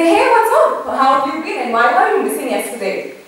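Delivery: bright, casual hey, then a quick teasing question; breezy casual greeting. Retold or imitated. To a colleague back at work: a breezy, chatty greeting. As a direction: greet a colleague far too cheerily. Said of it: "the tone of voice is highly inappropriate".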